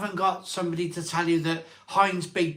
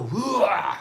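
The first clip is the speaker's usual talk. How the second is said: higher, louder startled whoa; surprised whoa; 6 semitones higher, 5 dB louder than usual. Retold or imitated. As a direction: recoil as if caught off guard. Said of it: "you go".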